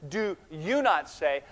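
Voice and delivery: "you" set apart emphatically, slow; stress on you. Shown as a demonstration. Preacher shows the Greek emphasis, stress on you. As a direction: lean slowly on the word "you". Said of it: "these are all emphatic".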